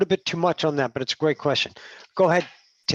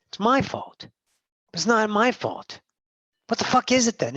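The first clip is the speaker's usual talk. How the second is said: retold yelling. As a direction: replay an angry outburst, rising as it goes. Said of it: "I fucking yelled at a couple of people".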